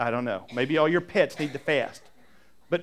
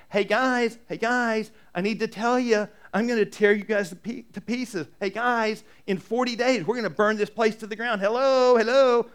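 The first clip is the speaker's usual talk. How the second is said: voicing God calling out; 5 semitones higher than usual. God shouting a warning to the Ninevites, raised calling voice. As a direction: call out to the city like a warning herald.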